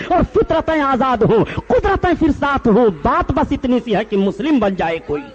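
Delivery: declaimed sermon climax in rhythmic lines; impassioned preaching. Acted. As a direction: exhort the congregation, then bring it down to close. Sermon climax, verse-like exhortation. (जोशीला वाइज़ाना अंदाज़)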